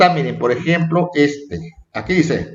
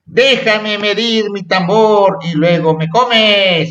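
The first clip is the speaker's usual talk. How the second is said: slow, higher storybook plea; súplica de personaje; 4 semitones higher, slower than usual. Acted. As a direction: read the character's line aloud with drawn-out words. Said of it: "dice, por ejemplo". (súplica de cuento, lenta y aguda)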